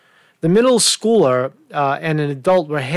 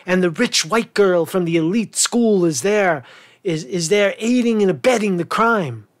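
mock indignation; 4 semitones higher than usual. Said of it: "That's the picture you're trying to paint".

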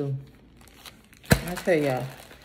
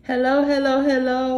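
sing-song hellos; 8 semitones higher, 7 dB louder than usual. Real, not acted.

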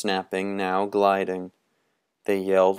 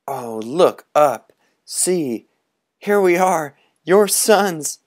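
thinking aloud; 8 semitones higher, 5 dB louder than usual. Acted. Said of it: "flew over the town and thought".

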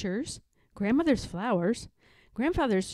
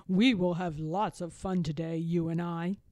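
a hint of an old grandfather's voice; lightly voiced jolly grandfather; grandfather bear; 3 semitones lower than usual. A narrator's reading.

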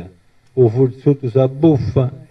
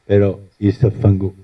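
laughing; 4 semitones lower, faster than usual. Real, not acted. Laughing at the poem's punchline.

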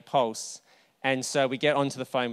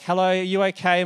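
calling out; 6 semitones higher, 6 dB louder than usual. Retold or imitated. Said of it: "I'm like".

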